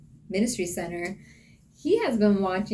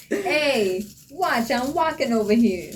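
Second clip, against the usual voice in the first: angry New Yorker; 4 semitones higher than usual. Pretend. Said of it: "Angry New Yorker".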